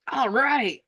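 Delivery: bright, high "All right"; a lifted, easy acceptance; calm acceptance. Retold or imitated. Coach reacts to a defensive client.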